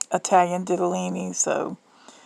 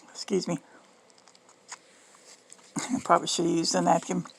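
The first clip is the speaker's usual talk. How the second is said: whispering; 3 semitones lower, 10 dB quieter, faster than usual. Real, not acted. Mouth full, aside.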